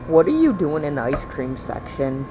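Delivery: loud call across the store; shouting. Real, not acted. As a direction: shout it at full volume. Yells again at ice cream.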